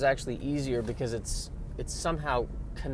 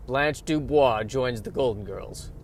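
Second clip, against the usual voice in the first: put-on promo voice; TV promo announcer; 4 dB louder than usual. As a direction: announce a very special episode. Mock TV episode promo.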